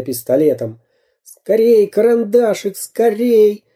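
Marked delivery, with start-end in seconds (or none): 1.2-3.6 high, pressing calls; anxious, raised-pitch prodding; hurrying urgently. A narrator's reading. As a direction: urge your friend on. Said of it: "торопил Самоделкин".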